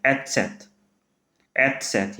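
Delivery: एचसेथ with a silent-ish s; name of ß. Shown as a demonstration. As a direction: say एचसेथ clearly, falling. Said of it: "इसको क्या बोला जाता है".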